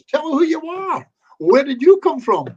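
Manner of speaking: high, loud, slow questions to the part; questioning a spirit. Shown as a demonstration. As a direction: slowly call out to whoever is there. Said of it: "I'm gonna be asking James".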